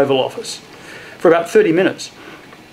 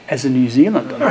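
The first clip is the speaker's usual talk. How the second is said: laughing; 4 semitones lower, faster than usual. Real, not acted. Amused at historical misnaming.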